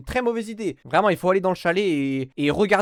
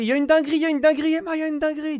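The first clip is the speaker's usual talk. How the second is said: raised, urgent half-shout; mock alarmed shout; 10 semitones higher, faster than usual. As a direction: sound the alarm, playfully. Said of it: "Il aurait dû crier".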